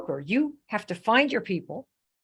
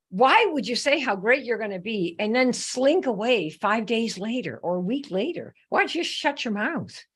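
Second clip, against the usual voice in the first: incredulous telling-off, pitch swinging up and down; lightly acted rebuke of an empty boaster; mock exasperated scolding; 3 semitones higher than usual. Acted scolding of recruits who quit.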